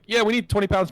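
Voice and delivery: lightly mimicked friend agreeing eagerly; voicing Nick. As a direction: sound keen to buy.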